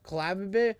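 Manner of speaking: "Klavib" said as "kluh-LAV-ih"; tentative, rising "Klavib"; mispronouncing the name. Real, not acted. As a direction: try "Klavib" with a short a. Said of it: "I don't even know how to fucking say that".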